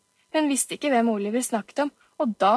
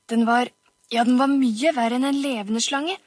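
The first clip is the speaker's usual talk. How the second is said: spooky voice; 2 semitones higher, 5 dB louder than usual. Acted. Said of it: "Til og med stemmen hans ble nifs".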